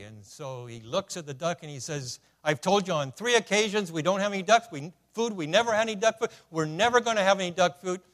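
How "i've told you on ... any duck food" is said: a touch of exasperated clerk; fed-up shopkeeper, lightly voiced; mock angry clerk. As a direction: clerk losing patience with duck. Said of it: "this made the clerk angry".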